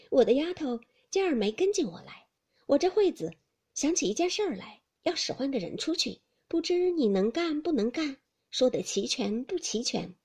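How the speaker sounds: a lady of the house testing a new maid; mistress Xifeng. Acted. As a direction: Xifeng giving a brisk test to a maid.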